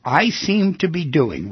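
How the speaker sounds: slow, deliberate dictation; measured delivery with a pause between phrases. Shown as a demonstration. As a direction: say it phrase by phrase for someone writing it down. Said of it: "you should write these down exactly as I tell you".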